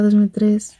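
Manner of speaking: whispered name. Real, not acted. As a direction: breathe it out unvoiced. Reading chat name.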